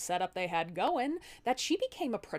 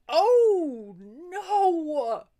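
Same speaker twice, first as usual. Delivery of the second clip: high loud mock gasp of dismay; mock alarm; 8 semitones higher, 9 dB louder than usual. Husband hearing about the branch attack, mock alarmed and loud. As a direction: play up the shock with a laugh.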